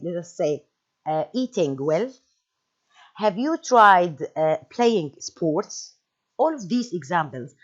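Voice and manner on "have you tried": "have you tried" drawn out, louder; slow emphatic phrase. Shown as a demonstration. Teacher stressing the advice opener. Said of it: "stretched advice phrase".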